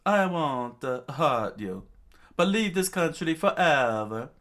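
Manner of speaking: high, loud warning; shouted ultimatum. Acted. Chopper sparing the king, shouted ultimatum. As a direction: order him out at the top of your voice.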